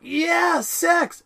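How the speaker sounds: very high excited cheer; eager Fry. Retold or imitated. Fry hearing the word sex, very high excited cheer. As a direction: blurt it out with glee. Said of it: "Fry's like".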